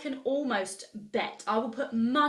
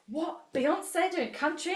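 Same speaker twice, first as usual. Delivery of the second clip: much higher, incredulous mock gasp; mock surprise; 8 semitones higher than usual. The public hearing about a singer going country, mock disbelief. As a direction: play the stunned crowd. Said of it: "Everyone was like".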